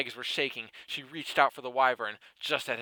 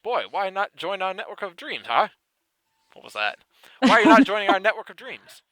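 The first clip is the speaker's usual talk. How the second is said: lightly put-on high British voice, loud at the end; a half-hearted British Elezen calling to the boy; mock British; 8 semitones higher, 8 dB louder than usual. Narrator attempting a British accent for the Elezen. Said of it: "yelled out to him in some sort of down-under sort of way".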